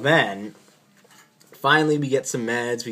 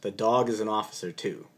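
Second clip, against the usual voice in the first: deadpan officer; 2 semitones lower, 4 dB quieter than usual. Retold or imitated. Officer answering the doctor, straight-faced deadpan. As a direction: say it dead serious, no smile. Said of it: "with a straight face, just like this".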